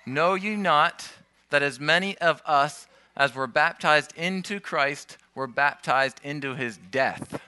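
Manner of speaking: slow, measured scripture reading. Acted. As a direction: read the verse slowly and solemnly. Scripture quoted.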